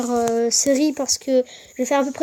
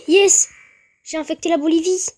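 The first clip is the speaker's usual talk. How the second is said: excited; 3 semitones higher than usual. Real, not acted. Cheering own game progress.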